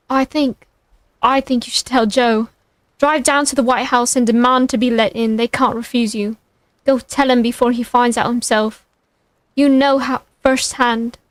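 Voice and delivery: put-on British accent drifting towards Irish; slipping Irish accent. Harry advising Brock to tell Joe, British accent slipping into Irish. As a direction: attempt British, let it slide into Irish. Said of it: "delving into an Irish accent".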